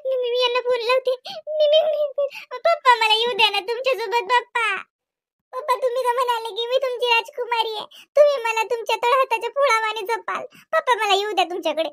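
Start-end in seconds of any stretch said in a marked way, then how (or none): 1.3-11.9 begging plea. Acted. Daughter begging father to take her.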